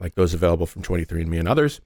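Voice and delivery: talking through a mouthful of crackers; words round a bite of food; mouth full. Real, not acted. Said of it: "my mouth is full of pizza crackers".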